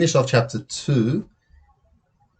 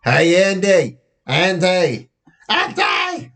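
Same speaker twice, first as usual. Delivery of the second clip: shouting a name; 7 semitones higher, much slower than usual. A narrator's reading. Danny calling to Andy from afar, shouting. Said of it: "when I hear shouting".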